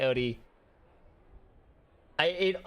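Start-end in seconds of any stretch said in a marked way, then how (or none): 0.0-0.4 O T said as "oh-dee"; O T in a Midwest mountain accent; Midwest soft T. Shown as a demonstration. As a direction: soften the T in O T to a D. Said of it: "my Midwest mountain accent".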